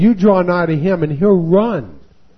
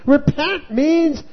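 ordinary delivery

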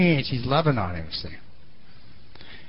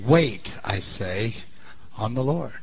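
slow, lower solemn scripture voice; King James reading; 9 semitones lower, 9 dB quieter, slower than usual. Shown as a demonstration. Pastor quoting the King James version, slow and solemn. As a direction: draw out wait, I say. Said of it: "King James says".

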